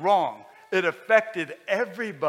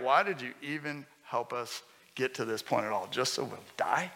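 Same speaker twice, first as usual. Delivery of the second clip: deflated Joshua; 4 semitones lower, 4 dB quieter than usual. Acted. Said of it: "And now he's like".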